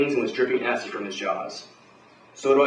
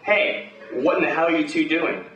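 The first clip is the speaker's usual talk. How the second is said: higher-pitched barking challenge; yell; 4 semitones higher, slower than usual. Acted. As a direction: call them out across the room, higher. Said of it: "and yell".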